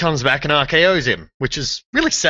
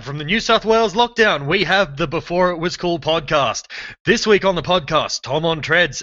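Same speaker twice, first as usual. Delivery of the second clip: big showman announcer voice, raised pitch; TV announcer intro; 3 semitones higher than usual. Acted. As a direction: announce it like a live TV show opener. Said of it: "It sounded more Saturday Night Live".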